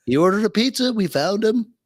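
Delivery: lightly put-on voice announcing at the door; lightly acted doorstep caller. Acts agents at the door.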